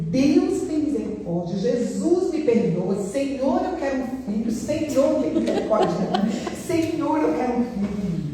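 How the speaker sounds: high, pleading cry to God; pleading prayer. Retold or imitated. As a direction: beg the Lord for a child.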